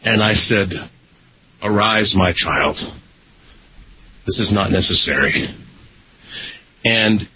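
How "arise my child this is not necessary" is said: lightly put-on solemn messiah, low and measured; mock-saintly blessing. Celebrity to kneeling tearful fan, mock-saintly blessing. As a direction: bless a kneeling follower with hammed-up gravity.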